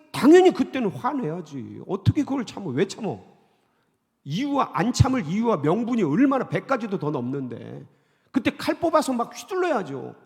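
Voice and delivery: loud, slowed righteous indignation; world's indignant voice. Acted. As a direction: argue the world's case forcefully. Voicing the world's view. (세상의 분노를 크게 대변하듯)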